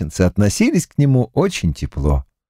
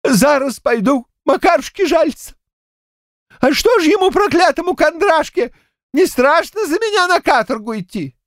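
put-on high, helpless old man's voice, much higher; lost, bewildered old man. A narrator's reading. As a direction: ask it as a dazed grandad who can't believe it.

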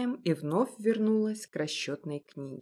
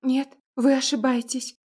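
frightened babble; 5 semitones higher, 5 dB louder than usual. Acted. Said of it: "пролепетала девушка испуганно".

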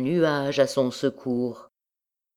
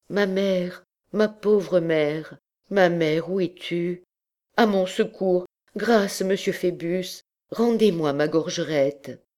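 higher-pitched, plaintive appeal; mildly acted distress, raised pitch; distressed plea; 4 semitones higher than usual. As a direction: plead for help, voice lifted. Girl pleads for help from captain.

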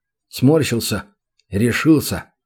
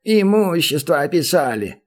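higher, whiny goblin whimper; whimpering grief; 4 semitones higher than usual. A narrator's reading. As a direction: whine it out like a ruined little goblin. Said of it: "Грустно прохныкал убитый горем гоблин". (прохныкать убито, жалобно, выше)

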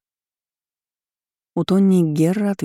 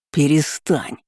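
barked; 2 semitones lower, slower than usual. A narrator's reading. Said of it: "рявкнул Гера".

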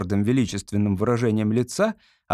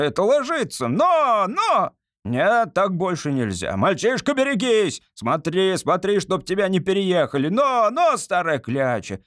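put-on drunken coachman; 3 semitones higher than usual. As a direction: bark at the old nag like a cabby. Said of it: "тоном, который сделал бы честь самому лучшему кучеру".

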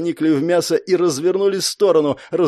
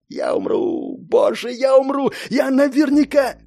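dread; 10 semitones higher than usual. Acted. Fear of death.

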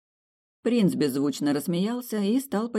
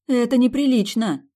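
high, loud squeak of protest; plaintive squeak; 9 semitones higher, 8 dB louder than usual. A narrator's reading. Heroine carried off by the prince, high plaintive squeak. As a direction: squeal it helplessly. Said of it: "жалобно пискнула".

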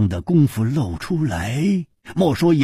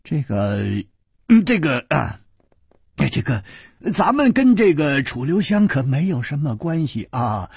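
fawning stammer; 2 semitones higher than usual. Acted. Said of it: "陪着笑说".

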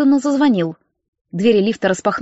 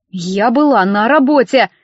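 "Я была на работе" with every word stamped; every word clipped out. A narrator's reading. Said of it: "отчеканила каждое слово". (чеканя каждое слово)

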